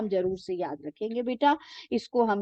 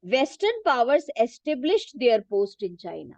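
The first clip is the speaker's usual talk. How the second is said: reading a textbook sentence very slowly for students to follow; teacher reading the book aloud, slow and measured; much slower than usual. Shown as a demonstration. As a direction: dictate it slowly, word by word.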